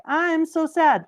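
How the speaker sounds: girl left standing there, mock sad. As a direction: pout it out, sad little girl. Poor girl mourning.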